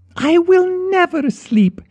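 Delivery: shrill, very high, petulant tantrum shriek. She tears herself away from him, screeching with petulant rage. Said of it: "she screeched with petulant rage".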